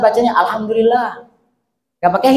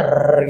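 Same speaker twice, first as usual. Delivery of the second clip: rolled r buzzing like a bee; 6 semitones lower than usual. Shown as a demonstration. Teacher buzzing an r like a bee for the class. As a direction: buzz the r like a bee. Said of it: "kayak suara lebah gitu ya".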